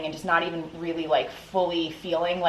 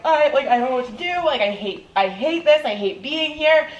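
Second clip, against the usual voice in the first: retold sobbing plea; 6 semitones higher than usual. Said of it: "and I'm, like, sobbing".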